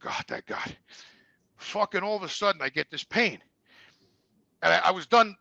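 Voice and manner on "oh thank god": whispered relief. Retold or imitated. Relief after long-held pee.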